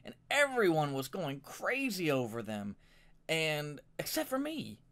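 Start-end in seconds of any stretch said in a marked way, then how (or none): 4.0-4.8 sing-song mock. Mocking the excited fans.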